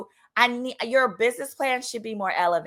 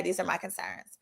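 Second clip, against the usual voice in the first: softer repeat; 5 semitones lower, 11 dB quieter than usual. Shown as a demonstration.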